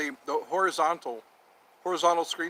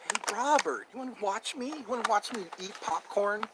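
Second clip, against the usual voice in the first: a hint of a mocking taunt, pitched higher; teasing high voice; 3 semitones higher, 3 dB quieter than usual. Teasing Robert about watching him eat popcorn, mock taunt. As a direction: needle Robert playfully.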